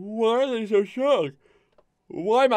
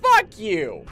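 angry shouting; 3 dB louder, slower than usual. Real, not acted. Raging at a game death.

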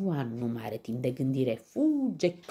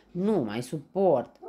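slow, loud, higher moan; wailing pig; 5 semitones higher, 7 dB louder than usual. A narrator's reading. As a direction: moan like a piglet at its limit. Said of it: "crohăie Ciuf văicărindu-se". (văicăreală de purceluș)

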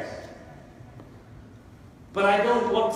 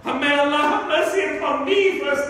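impassioned, raised preaching voice; emotional shouting; 4 semitones higher than usual. Real, not acted. Preacher admitting his own emotional shouting. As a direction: cry it out to the congregation, slowing at the end. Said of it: "shout so emotionally like I am".

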